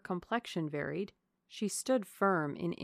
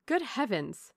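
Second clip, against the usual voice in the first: Good heavens! raised higher and louder; a startled exclamation; astonished cry; 4 semitones higher, 4 dB louder than usual. Acted. Elinor crying out at Lucy's hint, startled. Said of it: "cried Elinor".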